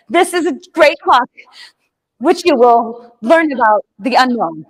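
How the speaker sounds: awkward presenter. Retold or imitated. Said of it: "what you revert to when you're totally new".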